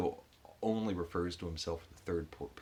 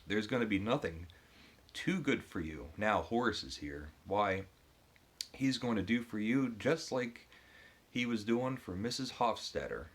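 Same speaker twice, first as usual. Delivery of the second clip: higher, louder, gushing servant voice, stretching each promise; boastful male maid; 5 semitones higher, 4 dB louder than usual. Acted. Reader voicing the bragging male maid to the wife, higher and louder. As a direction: oversell every promise like an eager servant. Reading Horace's boastful speech aloud.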